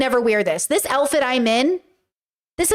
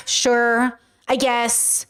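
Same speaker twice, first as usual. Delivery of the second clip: mock upset reluctance; much slower than usual. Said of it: "you can tell they're upset".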